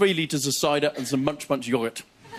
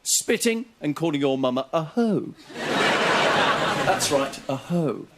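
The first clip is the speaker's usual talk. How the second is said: army major. Retold or imitated. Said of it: "an army major in an inner city school going".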